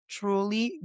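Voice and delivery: ordinary delivery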